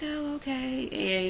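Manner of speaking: high, slow, dragged-out "oh, okay"; mock drawn-out reply. Castmate's slow reply mocked.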